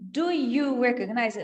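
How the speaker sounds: separated words, each one apart. Shown as a demonstration. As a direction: say each word on its own, unlinked. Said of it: "Ao invés de ele dizer só". (palavra por palavra, separado)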